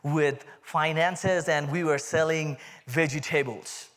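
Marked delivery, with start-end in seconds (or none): 2.9-3.9 Indian-accented "vegetables". Real, not acted. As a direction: say "vegetables" with an Indian accent, VEJ-ih-TAY-buls. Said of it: "That's my Indian accent coming out".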